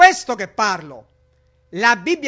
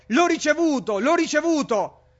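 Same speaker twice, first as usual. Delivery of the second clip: imitating an eager convert, pitch raised high on "L'ho ricevuto"; mock excited cry; 4 semitones higher than usual. Preacher mocking people running down the aisle, raised mock cry. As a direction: toss "L'ho ricevuto" up high twice, hammed-up joy. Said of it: "a gridare".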